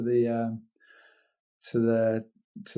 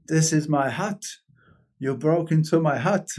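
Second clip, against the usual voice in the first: mock angry; 3 semitones higher than usual. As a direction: imitate a furious hut owner, half-hearted. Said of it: "this guy is pissed".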